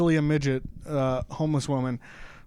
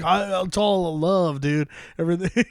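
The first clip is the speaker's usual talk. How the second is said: stoned hippie; 2 semitones higher than usual. Retold or imitated. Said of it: "They're like".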